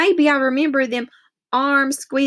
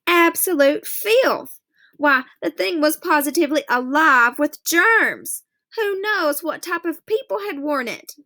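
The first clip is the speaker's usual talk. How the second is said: a mother fretting over germs; a hint of a disgusted mother; fussy Mama; 5 semitones higher than usual. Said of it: "she'd say".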